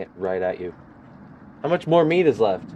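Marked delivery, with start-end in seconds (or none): 1.6-2.7 demanding Karen. Acted. Karen demands more meat.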